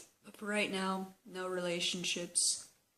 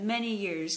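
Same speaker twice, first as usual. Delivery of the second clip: many punched louder, falling; stress on many years; 5 dB louder than usual. Real, not acted. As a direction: hit many hard. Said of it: "let me emphasize that".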